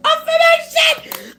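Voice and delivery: high, loud, slow cry of the card's name; drawn-out thrilled announcement; excited card call. Real, not acted. Card reveal on tarot live.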